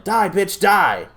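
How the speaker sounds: high, loud mock yell; mock yell at the girlfriend; retold yell. Man at the minivan yelling at his girlfriend, mock yell. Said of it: "this dude yelling".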